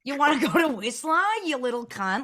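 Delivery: a hint of an Australian accent, rising at the end; mock brash Aussie bloke, lightly done; a light imitation of an Australian ex. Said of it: "with your best Australian accent".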